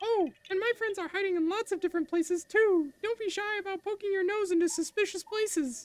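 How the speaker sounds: high squeaky cartoon voice. Voicing a character's lines aloud, in a Mickey Mouse voice. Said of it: "I got a little Mickey Mouse there doing that voice".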